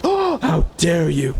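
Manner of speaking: slow, drawn-out fake indignation; mock outraged shout. Mocking progressives who freak out, slow hammed-up outraged shout. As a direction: shout it like a scandalized pearl-clutcher.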